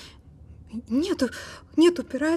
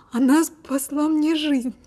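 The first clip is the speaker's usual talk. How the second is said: louder, pained rush of guilt; distressed; 2 semitones higher, 3 dB louder than usual. Acted. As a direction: let the remorse spill out. Guilty outburst about her sister.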